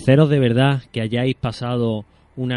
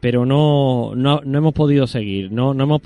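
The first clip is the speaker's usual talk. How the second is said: louder, pushing through a bad line; speaking up; 2 semitones higher, 4 dB louder than usual. Real, not acted. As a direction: raise your voice so they hear. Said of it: "pero te oigo muy mal". (hablando más alto por la mala conexión)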